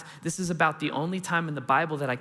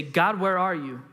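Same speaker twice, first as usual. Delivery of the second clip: mild retold shout; 3 semitones higher, 4 dB louder than usual. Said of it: "when we shout out".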